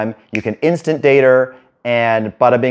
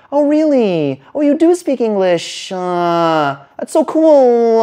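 much higher, rising needy voice, final words slowed; sloping up tonality; 10 semitones higher, much slower than usual. Shown as a demonstration. Coach demos his nervous approach voice to a girl, high and rising. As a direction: squeak each line upward like seeking approval. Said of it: "I may be sloping up tonality".

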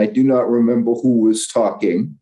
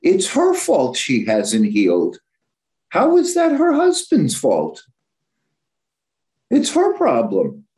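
scoffing disbelief in thought; indignant thoughts, rising sharply; exasperated inner voice; 3 semitones higher than usual. Retold or imitated. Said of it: "I'm thinking".

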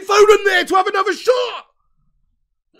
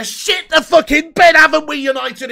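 loud despairing outburst; 7 dB louder than usual. Real, not acted. Fan despairing at conceding.

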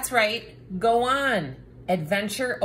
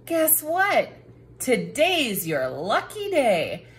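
excited; 3 semitones higher than usual. Acted. Book announces good news.

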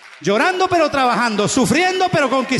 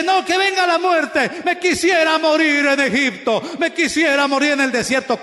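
mock coward whine; 2 semitones higher than usual.

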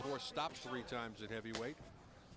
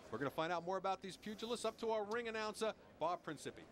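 TV boxing commentary; 3 semitones higher than usual. Acted. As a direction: build the fight hype like a TV commentator. TV boxing broadcast opening.

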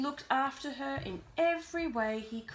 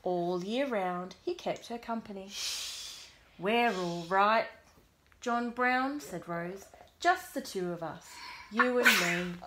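put-on reading to children; 4 dB louder than usual. A narrator's reading. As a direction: read gently to a small child. Reads picture book aloud to child.

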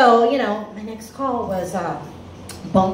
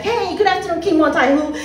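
bright-hearted greeting, pitched up; happy; 5 semitones higher than usual. Acted. Happy collector greeting a client she expects will pay. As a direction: greet the client hopefully, voice lifted. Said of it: "I call her, I'm happy".

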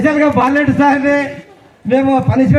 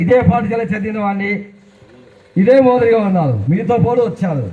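lightly voiced film-star dialogue delivery; a hint of a movie hero talking to fans; Chiranjeevi impression; 3 semitones lower than usual. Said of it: "Chiranjeevi గారిని మాట్లాడవలసిందిగా". (చిరంజీవి గారిలా తేలికపాటి cinema dialogue)

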